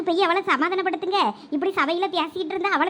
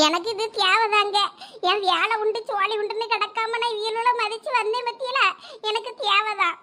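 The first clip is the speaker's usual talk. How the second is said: slow, tearful self-pity; tearful lament; 3 semitones higher than usual. Acted. Wronged woman laments to her family, tearful. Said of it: "நீ எதுக்கு லட்சுமி அழுற?".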